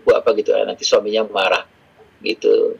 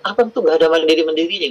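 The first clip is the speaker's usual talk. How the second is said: exasperated scolding; 4 semitones higher than usual. Retold or imitated. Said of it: "ketika saya bilang".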